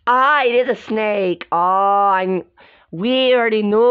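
loud, high excited exclaim. Real, not acted. Girls spotting the snake, excited exclaim. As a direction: burst out with the discovery.

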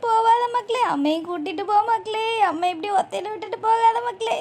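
mother's sobbing plea to her departing daughter; tearful wailing lament. Acted. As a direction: wail the lines as a mild lament. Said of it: "ஏன் இப்படி ஏங்கி ஏங்கி அழுவுறீங்க".

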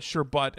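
"sherbet" as sher-BUT; sherbet ending in BUT. Shown as a demonstration. Co-host insisting on how Miriam wants it called, ending in BUT. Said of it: "pronounce it sherbet".

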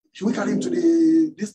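panicked nurses. Retold or imitated. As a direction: voice the nurses' alarmed plea. Panicked nurses ask about patient.

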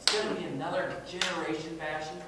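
mock-angry quote, high and loud at first, easing off; retold anger. Speaker retelling an emerging adult's complaint about the seminar, mildly angry. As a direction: imitate an annoyed young listener, heated then settling. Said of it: "she was just so angry".

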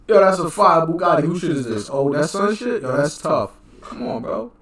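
loud, amazed reaction; excited. Real, not acted.

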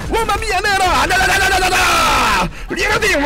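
wild high gloating shouts; gleeful shouting. Real, not acted. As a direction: crow over the enemy at full voice. Wild gloating during a fight.

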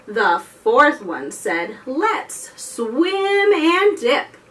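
slow sing-song counting rhyme; finger rhyme. Acted. Librarian leading kids in a finger rhyme, sing-song. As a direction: chant it slowly for toddlers.

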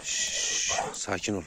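calm the dog with a soft shush; soft soothing shush. Real, not acted. Calming the excited dog Çomar, soft shush.

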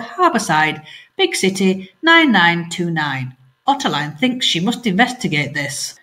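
lively read-aloud storytelling; story narration. A narrator's reading. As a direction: tell the story to children at home. Teacher reading story aloud.

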